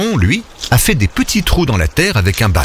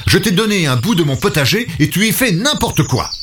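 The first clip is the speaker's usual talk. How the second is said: higher, reproachful scolding; mild angry reproach; 9 semitones higher than usual. Acted. Léon reproaches his pig for the mess, mildly angry. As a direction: tell him off, hurt. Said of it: "est vraiment fâché".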